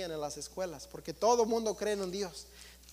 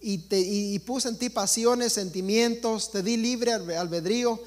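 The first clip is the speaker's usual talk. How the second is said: voicing their God; 4 dB louder than usual. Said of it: "dice el Dios de ellos".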